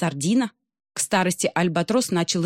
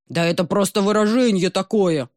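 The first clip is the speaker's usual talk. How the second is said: rumbling; 2 semitones higher, 4 dB louder than usual. Acted. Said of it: "пророкотал морской царь".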